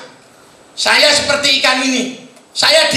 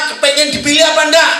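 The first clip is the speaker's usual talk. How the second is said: loud rising challenge, each enggak punched; shouted questions; 3 semitones higher, 3 dB louder than usual. Real, not acted. Speaker challenges the seminar audience, shouting. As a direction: shout it out to fire up the room.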